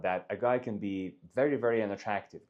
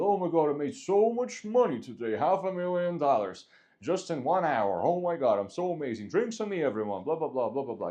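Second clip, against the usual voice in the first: high, excited boasting to a friend; hammed-up excited big shot; showy bragging; 5 semitones higher than usual. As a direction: brag so the whole bar overhears. Bragging loudly at a bar.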